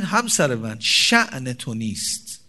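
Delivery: husband gently reminding his wife of her worth; tender advice to wife. Shown as a demonstration. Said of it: "بگین".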